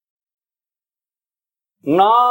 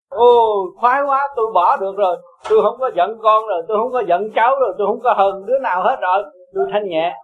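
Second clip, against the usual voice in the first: higher-pitched, mildly gleeful relief; vui mừng buông bỏ; 3 semitones higher than usual. Acted. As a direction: act out happily being free of anger. Acts out joy of letting go. (hớn hở, nhẹ nhõm)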